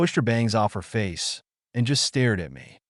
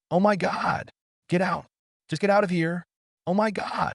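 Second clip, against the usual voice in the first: screaming; 9 semitones higher than usual. A narrator's reading. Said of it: "Jessie screamed".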